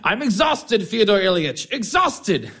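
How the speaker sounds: quoting through laughter. Retold or imitated. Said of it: "he said to me".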